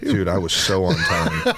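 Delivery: "so on time" said through a laugh. Real, not acted. Laughing as he insists to his co-host he was punctual. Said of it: "I love that you keep emphasizing be on time".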